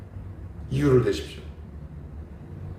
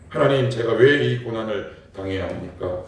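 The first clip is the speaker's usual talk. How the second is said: mild crying out; 4 dB louder than usual. Retold or imitated. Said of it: "울부짖는데".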